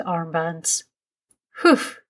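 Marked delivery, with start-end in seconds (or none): 1.6-2.0 high, short exhale of relief; puffed-out whew. A narrator's reading. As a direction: let out a whew after blowing hard. Daddy done puffing into armbands.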